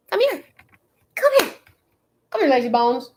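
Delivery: high coaxing call; coaxing the dog. Real, not acted. Owner coaxing her lazy dog to come in a high voice. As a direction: sweet-talk her over.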